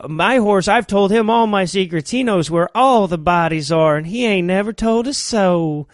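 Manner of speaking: a mild put-on Southern US accent. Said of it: "doing way too good a Southern accent".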